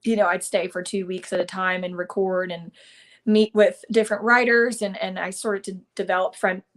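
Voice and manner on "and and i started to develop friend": talking through hiccups. Real, not acted. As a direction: hiccup interrupting the words. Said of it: "I have the hiccups".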